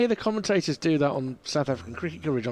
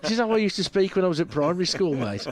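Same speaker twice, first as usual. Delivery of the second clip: broad Birmingham accent, a touch quicker; Brummie accent; 4 semitones higher than usual. Shown as a demonstration. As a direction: lay on the Brummie from primary school. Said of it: "speak in my natural accent".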